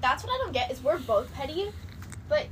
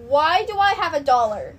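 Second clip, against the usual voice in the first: retold question from ex; 7 dB louder, slower than usual. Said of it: "And he goes".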